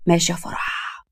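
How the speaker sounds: soft, curt acknowledgement; muted menace. Acted. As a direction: drop it quietly as he gives up. Rebuffed man quietly threatens.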